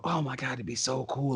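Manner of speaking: preteen self. Retold or imitated. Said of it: "preteen self just going".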